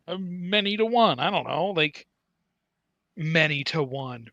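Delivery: Han Solo delivery. Retold or imitated. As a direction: toss it off dryly like Han Solo. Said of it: "like a Han Solo would have".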